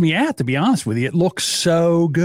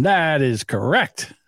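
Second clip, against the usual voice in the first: mock quizmaster approval; slower than usual. Host confirming guest's answer like quizmaster.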